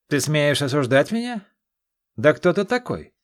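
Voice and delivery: loud, indignant royal fury; outraged. Acted. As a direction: bristle and demand who he is. King enraged at accusation.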